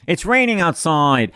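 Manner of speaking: slow, mock French Canadian brush-off with a falling tune; Mister Couture impression. Algebra teacher answering a stupid question, mock French Canadian accent. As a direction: imitate a French Canadian teacher, stretching the words. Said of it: "an amazing imitation of Mister Couture".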